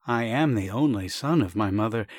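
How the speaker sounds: the proud only son, lightly voiced; agitated Sasha. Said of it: "said in an agitated voice".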